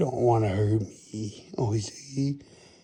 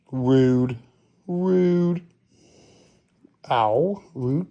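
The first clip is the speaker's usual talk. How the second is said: loud rebuke; 2 semitones higher, 6 dB louder, much slower than usual. Real, not acted. Cat bites, loud rebuke.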